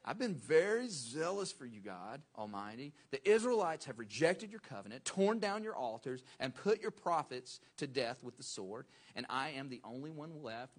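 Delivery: loud whining complaint, pitch sliding down on God; the prophet complaining to God in a whiny voice. Shown as a demonstration. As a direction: whine it like a sulking prophet. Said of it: "I want you to put it in whiny voice".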